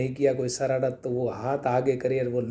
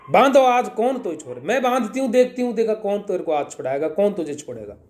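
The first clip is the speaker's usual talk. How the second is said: angry mother; 5 semitones higher than usual. Acted. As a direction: scold the naughty child as a furious mother. Angry Yashoda scolds Krishna.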